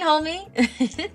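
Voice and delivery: usual speaking voice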